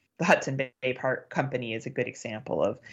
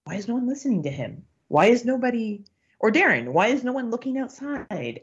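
higher, insistent retold outcry; retelling her frustration at the people around her, higher and exasperated; 7 semitones higher than usual. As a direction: plead to nobody in particular, higher and pressing. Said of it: "And I'm like".

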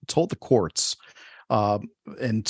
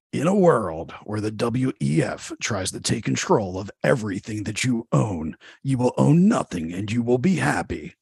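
movie trailer voice. Acted. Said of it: "Breaking into that old, uh, movie voice guy".

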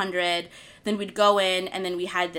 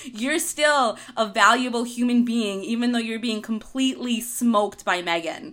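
louder, encouraging pep talk to yourself; 2 semitones higher, 4 dB louder than usual. Retold or imitated. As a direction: give yourself a pep talk mid-run. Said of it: "I had to give myself a pep talk".

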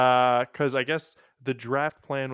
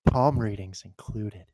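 infomercial announcer; 2 semitones lower than usual. Pretend. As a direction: sell it like a late-night TV ad. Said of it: "Dude, keep talking like that".

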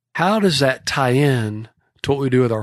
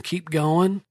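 ordinary talk

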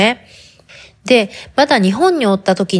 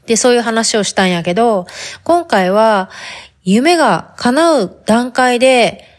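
chatty talk in put-on Hakata dialect. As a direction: chat casually, leaning into Hakata dialect. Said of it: "博多弁で喋ってみようんやけど". (博多弁での気さくな語り)

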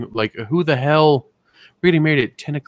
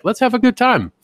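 high, loud mock party whoop; rowdy party call; 10 semitones higher, 4 dB louder than usual. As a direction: play the tipsy comedian rallying the room. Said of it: "They're just like".

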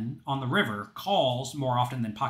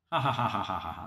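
lower, staccato maniacal ha ha; unhinged villain laugh; 6 semitones lower, 4 dB quieter than usual. Pretend. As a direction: cackle like a gloating madman. Villain laugh after joke punchline.

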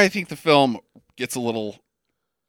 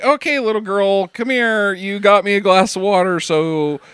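hammed-up hero; 5 dB louder than usual. Voicing hero curing the girl.

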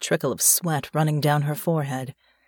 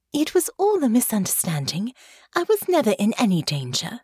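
soothing tone; 5 semitones higher than usual. Acted. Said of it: "in the most soothing tone she could manage".

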